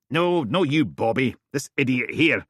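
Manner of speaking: high, loud rough character voice; Steele's voice. Acted. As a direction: brush off the listener bluntly. Steele talking on phone.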